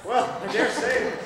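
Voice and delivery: slow, stretched-out response to innuendo; drawn-out reaction. Acted. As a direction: stretch it out knowingly.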